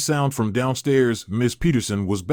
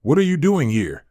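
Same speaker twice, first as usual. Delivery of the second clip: puzzled question, pitched a little up; confused; 5 semitones higher than usual. A narrator's reading. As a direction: ask in puzzled surprise.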